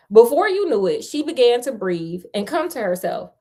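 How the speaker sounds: fairy tale read out with emphasis; story narration. A narrator's reading. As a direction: tell it like a lively storyteller. Reads the fairy tale aloud.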